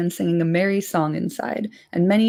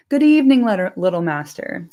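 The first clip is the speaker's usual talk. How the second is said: jovial landlord; 4 dB louder than usual. Acted. Butterbur greeting the hobbit guests, hearty and louder.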